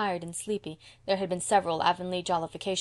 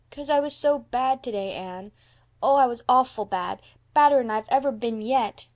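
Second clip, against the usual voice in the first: put-on high, loud, distressed child; miserable little boy Davy; 5 semitones higher, 7 dB louder than usual. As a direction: wail it like a guilty small boy.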